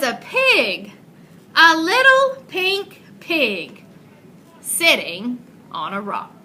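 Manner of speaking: put-on lively read-aloud for young children; storybook narration. A narrator's reading. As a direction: tell it like a picture book to a class. Reads a picture book aloud.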